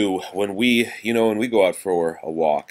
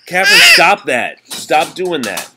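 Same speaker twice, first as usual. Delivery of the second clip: sharp loud telling-off, higher; scolding; 11 semitones higher, 12 dB louder than usual. Real, not acted. Parent interrupting the reading to scold Catherine, loud and sharp.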